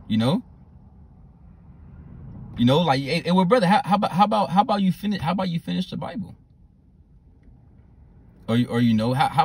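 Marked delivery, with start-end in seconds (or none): 3.0-6.3 higher, laughing mock challenge; teasing rebuke. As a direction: needle the brother with a grin. Teasing rebuke to slothful brother.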